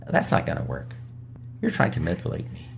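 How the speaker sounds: half-whispered accusation; knowing accusatory retort. Shown as a demonstration. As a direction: call out the manipulation. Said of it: "Let me tell you not the way to do it".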